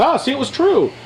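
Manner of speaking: high mock insistence; mock minions. Mocking Fox minions crowing it was true. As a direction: ape the minions' smug chant. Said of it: "they still are out there going".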